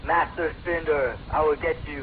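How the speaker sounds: a slow, lightly voiced cartoon baddie; slow mock villain voice. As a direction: drag it out like a bad villain impression. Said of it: "why don't you try and do that voice".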